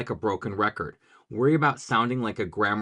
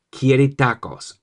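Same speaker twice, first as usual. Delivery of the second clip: pirate voice; 6 dB louder, slower than usual. Shown as a demonstration. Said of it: "Say it in a pirate voice".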